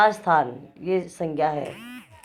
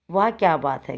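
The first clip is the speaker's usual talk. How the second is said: exclaimed. Shown as a demonstration. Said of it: "क्या बात में प्रश्न नहीं पूछा गया".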